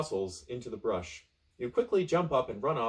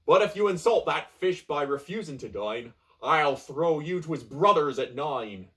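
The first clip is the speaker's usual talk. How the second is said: pirate threat; 3 semitones higher, 5 dB louder than usual. Acted. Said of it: "he says".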